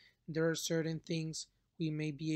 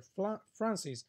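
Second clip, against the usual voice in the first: polite request. Shown as a demonstration. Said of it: "it sounds way better".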